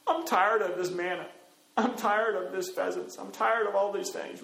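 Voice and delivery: mock grumbling, on one repeated tune; weary complaint. Israelites fed up with manna, complaining. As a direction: whine through a list of gripes. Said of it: "the next moment they're like".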